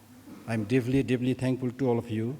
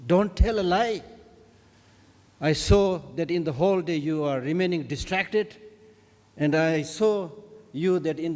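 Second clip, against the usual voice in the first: retold scolding, higher on the opening rebuke; gently mock-scold, like a master reproving a pupil; mild scolding; 3 semitones higher than usual. Tibetan master to a student who isn't changing, mildly scolding. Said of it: "the teacher scolds him by saying".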